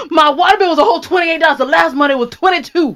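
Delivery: put-on cranky old man. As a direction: gripe like a stingy old-timer. Same cranky old man rants.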